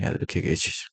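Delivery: whispered reminder; soft whisper to students. Acted. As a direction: whisper it like a secret tip. Teacher stresses a memory tip.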